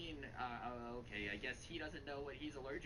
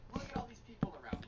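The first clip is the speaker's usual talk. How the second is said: imitated mother snapping, a bit louder; mock angry mom; 5 semitones higher, 3 dB louder than usual. Mother scolding son in store, mock outrage. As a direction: point at the crowd in mock outrage. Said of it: "she looks at her son and goes".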